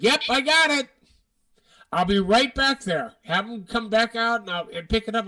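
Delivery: eager shuttle lady. Retold or imitated. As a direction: play the upbeat shuttle lady who found it. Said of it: "the lady's like".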